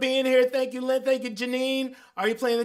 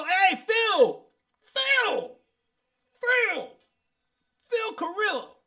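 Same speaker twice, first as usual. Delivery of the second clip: high excited call of a name; high happy shouting of a name; 11 semitones higher, 4 dB louder, slower than usual. Real, not acted. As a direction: call out to him, delighted. Calling out a friend's name.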